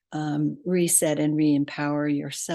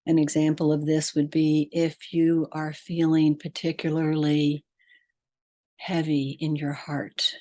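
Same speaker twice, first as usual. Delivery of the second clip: measured meditation guide, long pauses between phrases; guided meditation. Real, not acted. Podcast host leading listeners to breath and heart, guided meditation. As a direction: lead them inward phrase by phrase, leaving long silences.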